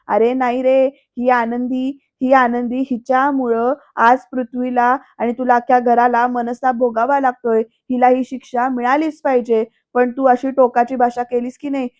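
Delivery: mildly hammed-up retelling of an outburst; theatrical pleading. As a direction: play at melodrama, lightly. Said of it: "Vidyadhar नाटकी स्वरात बोलतोय". (नाटकी स्वरात, थोडा आव आणून)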